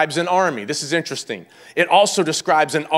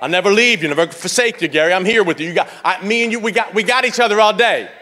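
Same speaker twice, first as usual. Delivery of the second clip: lightly voiced, laughing reassuring God; a touch of God comforting Gary; mild warm God's voice; voicing God; 4 semitones higher, 4 dB louder, faster than usual. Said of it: "he places his hand".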